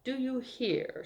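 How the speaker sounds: lightly teasing, sing-out repeats; a touch of cheerful affection. A narrator's reading. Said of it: "laughing cheerfully".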